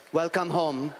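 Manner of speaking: mock Indian immigration officer accent; lightly done Indian accent, warm welcome. Border guard greeting the comic in Indian accent. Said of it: "Is that accent offensive?".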